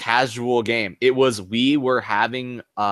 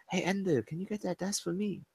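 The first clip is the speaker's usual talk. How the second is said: mock Asian accent; 7 semitones higher, 13 dB quieter than usual. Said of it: "I'll do it in my Asian voice too".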